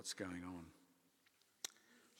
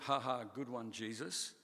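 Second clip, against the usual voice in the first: mock laughing; 3 dB louder than usual. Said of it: "the response wasn't".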